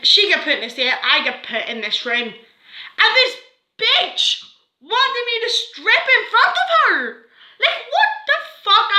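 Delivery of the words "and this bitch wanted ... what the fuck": high, laughing disbelief; outraged laughing. Real, not acted. Teen girl recalling a humiliating strip search, high disbelieving laugh.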